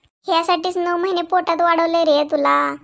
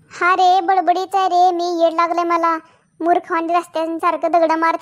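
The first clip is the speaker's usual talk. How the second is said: sarcastic self-mockery; 3 dB louder than usual.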